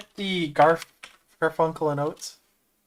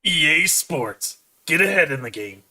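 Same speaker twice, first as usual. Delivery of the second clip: sports announcer slogan. Retold or imitated. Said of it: "how the slogan goes".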